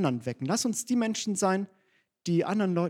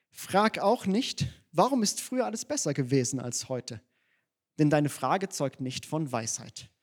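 Bible verse reading. Retold or imitated.

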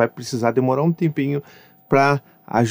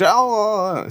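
imitating a child playing; 9 semitones higher, much slower than usual. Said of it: "Aí o Dante".

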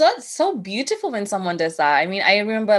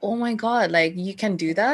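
retold amazement. Woman amazed he would wash it, retold astonishment. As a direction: marvel at it, replaying the moment. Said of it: "I was just like".

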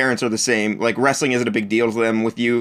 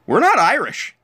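mom voice; 9 semitones higher than usual. Retold or imitated. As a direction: mimic mom's denial, pitched well up. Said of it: "She's like".

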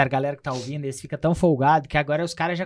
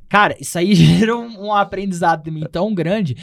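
ordinary delivery

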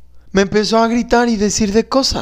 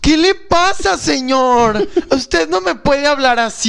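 offended, pitch up, telling him off; woman scolding a street harasser; indignant confrontation; 5 semitones higher, slower than usual. Acted. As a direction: put him in his place.

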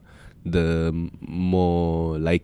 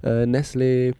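higher, louder, thrilled at a bargain; excited inner voice; 7 semitones higher, 4 dB louder than usual. Retold or imitated. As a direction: get giddy over half price.

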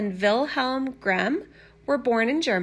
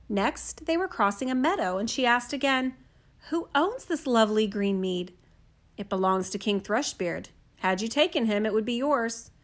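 soft, even fairy-tale reading; gentle storyteller voice; storybook narration; 3 dB quieter than usual. A narrator's reading. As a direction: read it like a bedtime story. Reads a fairy tale aloud.

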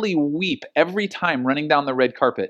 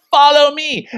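louder and higher, a firm call to follow; commanding call; 10 semitones higher, 8 dB louder, slower than usual. Retold or imitated. Jesus calling Simon to follow him, loud and commanding. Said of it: "And then Jesus is like".

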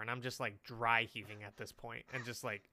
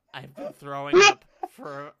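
laughing; 11 semitones higher, 15 dB louder than usual. Retold or imitated. Retelling misery, laughing loud.

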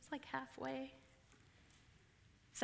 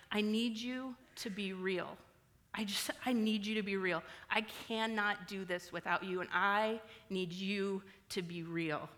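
tearful prayer. Shown as a demonstration. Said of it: "this is what it sounds like".

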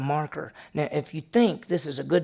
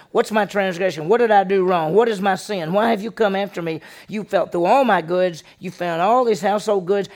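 loud, higher furious protest; Jacob very angry; 5 semitones higher, 6 dB louder than usual. Retold or imitated. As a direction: let twenty years of grievance out. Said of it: "Jacob came very angry".

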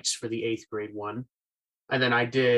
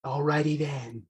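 Ace Ventura. Retold or imitated. Imitating Ace Ventura for the host on Zoom. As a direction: stretch out the catchphrase like Ace Ventura. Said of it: "greatest celebrity impression is the Ace Ventura".

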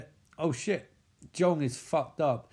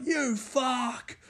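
mock nightstand voice; 10 semitones higher than usual. Voicing the nightstand.

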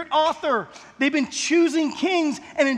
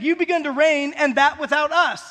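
lightly mocking, pitched higher; mild sarcastic jab in a raised voice; almost sarcastic; 3 semitones higher, 4 dB louder than usual. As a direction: poke fun at them, voice lifted. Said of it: "he says this almost sarcastically".

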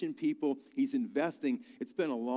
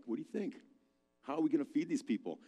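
much softer, a confiding question; quiet aside to a disciple; hushed aside; 5 dB quieter, faster than usual. Retold or imitated. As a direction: lean in and ask it under your breath. Jesus leans over again.

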